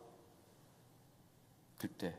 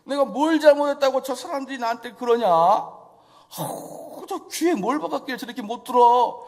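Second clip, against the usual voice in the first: loud, hammed-up grumble of frustration; mock despairing complaint; 4 semitones higher, 6 dB louder than usual. Imagined Jesus complaining about the crowds, hammed-up grumble. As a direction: whine like you've given up. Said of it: "슬럼프에 빠졌겠냐고요".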